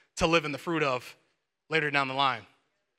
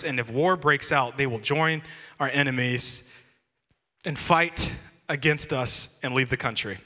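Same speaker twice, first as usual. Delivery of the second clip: measured reading aloud, easing lower toward the end; scripture reading; 3 semitones lower than usual. A narrator's reading. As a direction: read the passage out deliberately.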